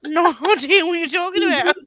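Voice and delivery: put-on Aussie accent. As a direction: protest in a bad Aussie accent. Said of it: "You still doing the Aussie accent?".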